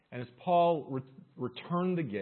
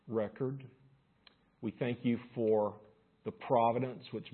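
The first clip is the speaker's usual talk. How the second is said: measured public prayer, falling away toward the amen. Real, not acted. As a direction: lead the congregation in reverent prayer. Leads congregation in prayer.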